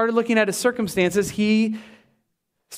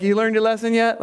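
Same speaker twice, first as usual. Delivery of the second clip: laughing mock reproach; half-laughing mock lecture; teasing scold; faster than usual. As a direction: poke fun at the smug scolder.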